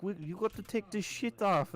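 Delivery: put-on bossy drunk fan order; rowdy German fan. Fans telling him to hide his shirt, high loud mock order.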